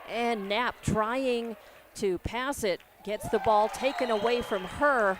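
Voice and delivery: loud call of the steal; building up as the ball is stolen; excited. Real, not acted. Steal called out live.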